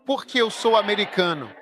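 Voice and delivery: quick, lifted mock American accent; playful put-on American accent. Shown as a demonstration. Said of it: "poderá falar como um americano".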